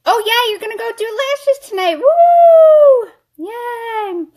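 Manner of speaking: squealed, very high put-on cheer; high mock cheering. Cheering on a lash night out, high-pitched mock excitement. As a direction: whoop it up in a high voice.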